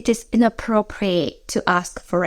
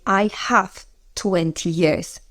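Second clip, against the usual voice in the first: slow literal gloss; slower than usual. Shown as a demonstration. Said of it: "We say".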